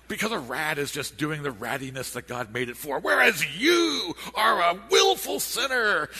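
loud, rising preacher rebuke; thundering rebuke. Retold or imitated.

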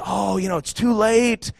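hushed, drawn-in insinuation; devil's whisper. Acted. Devil on the shoulder whispering discouragement, mock whisper. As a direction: drop softly into a sly tempter's murmur. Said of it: "and he whispers".

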